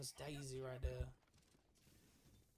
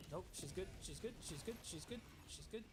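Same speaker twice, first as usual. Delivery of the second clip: anxious reassurance; 5 semitones higher than usual. Real, not acted. Friend's character dying on screen.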